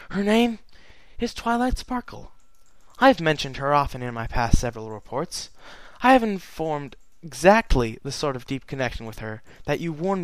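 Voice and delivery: lightly voiced regal princess, sad and earnest; Celestia's letter. Celestia reads her letter aloud.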